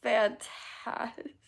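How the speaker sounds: slow, drawn-out mock enthusiasm; sarcastic cheer. Streamer imitating Travis's chat message, drawn-out sarcasm. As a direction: drag out the fake delight. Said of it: "I feel like that's sarcasm".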